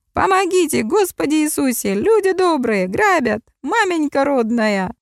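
high, shrill cries for help; frantic yelling. A narrator's reading. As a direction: yell for help in panic. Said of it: "раздался истошный вопль".

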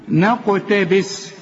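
نقتبس slow, light ن and echoing dark ق; bounced qaf. Shown as a demonstration. Teacher modelling careful letters, qalqalah on ق in نقتبس. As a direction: release the ق in نقتبس with a small bounce. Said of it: "طلقة للقاف".

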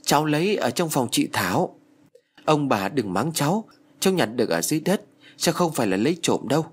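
put-on a touch of a frightened child's plea; scared, crying boy. Little boy pleading with grandparents, mildly tearful. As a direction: beg not to be scolded, lightly voiced. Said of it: "Thằng bé sợ hãi òa lên khóc".

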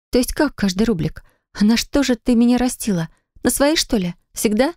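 can't believe what she hears; bewildered heroine. Acted.

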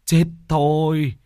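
high, slow, scolding cry; old shaman cursing in despair; exasperated shout. Acted. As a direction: berate the foolish girls, drawn out. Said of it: "Mò Bá Cha hét lên".

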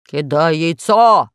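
slow, loud "Кидай яйцо!" with a falling end; mock monster bellow "Кидай яйцо!"; Pashka shouting. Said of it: "крикнул Пашка".

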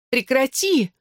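high shout to stop it. A narrator's reading. Blonde girl shouts at the beating narrator. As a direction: yell stop at him. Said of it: "крикнула блондинка".

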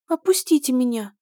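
high, thin squeaky voice; weak squeak. A narrator's reading. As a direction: squeak it out weakly. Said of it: "слабо пропищала рыжая принцесса".

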